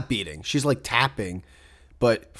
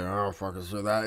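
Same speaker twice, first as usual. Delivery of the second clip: whispered aside; 4 semitones lower, 9 dB quieter than usual. Retold or imitated. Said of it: "I'll, like, go to her ear".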